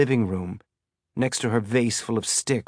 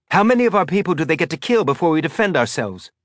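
angry outburst; 7 semitones higher, 3 dB louder, faster than usual. Acted.

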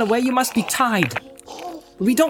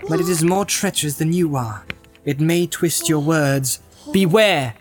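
higher-pitched, commanding rebuke; stern warning; 7 semitones higher than usual. A narrator's reading. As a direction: challenge the captive sternly, with emphatic warning. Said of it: "his words and his stern voice".

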